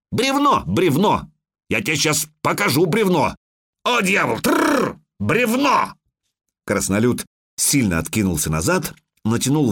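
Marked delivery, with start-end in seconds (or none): 0.1-5.9 high-pitched, urgent cries; alarmed exclamations. A narrator's reading. Log lying across the road, alarmed cries. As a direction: pitch leaping up in mock panic. Girl warns, dwarf panics at log.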